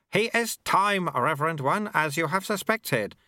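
put-on humble old monk speaking up; sweeper character voice. A narrator's reading. Lutze answers the abbot respectfully, lightly voiced old man.

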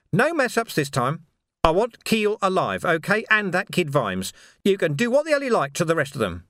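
villain's orders, pitched well up; bossy gang leader Carcer. Acted. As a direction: lay down the law to your crew.

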